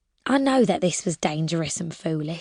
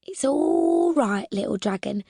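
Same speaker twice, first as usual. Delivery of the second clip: soothing refrain. Retold or imitated. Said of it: "got a bit tired of saying".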